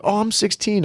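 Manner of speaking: put-on high-pitched kid voice; mock teen reply; imitated teenager. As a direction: answer as a young kid, pitched right up.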